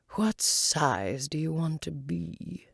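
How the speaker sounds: slow caterpillar voice; a slow, drawn-out question from the caterpillar. Acted. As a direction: ask it slowly, caterpillar-like.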